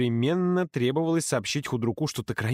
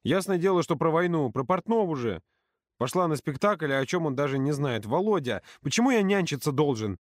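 indignant rant; 5 semitones higher than usual. Acted. Юрка ranting indignantly.

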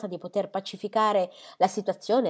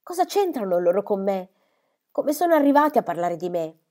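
indignant daughter snapping back; angry; 3 semitones higher, 6 dB louder than usual. Acted. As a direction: flare up at her mother, offended. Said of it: "una luce rabbiosa le brillò negli occhi".

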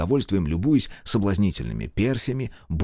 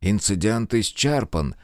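nervous anger; 2 semitones higher, slower than usual. Acted. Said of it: "со злой нервозностью".

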